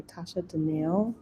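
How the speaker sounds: "Danielle" with the stress at the end; corrected pronunciation. Real, not acted. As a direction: softly correct it to "Danielle", ending in -ELL. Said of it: "I'm gonna get this right".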